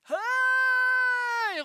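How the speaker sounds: high, loud call of Hei from down the street; shouted greeting. Retold or imitated. The man shouting Hei down the street to the preacher, a loud high call. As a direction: call out Hei to be heard far off. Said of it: "ropte han nedover".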